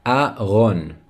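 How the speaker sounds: "Aron" in two measured syllables; model pronunciation. Shown as a demonstration. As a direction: say "Aron" carefully for learners to copy. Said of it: "Say it with me".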